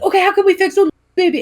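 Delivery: put-on high, babying coo; mock cooing niece. Niece fussing over the toddler, sweet and high. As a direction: coo over the crying baby. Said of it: "come over and be like".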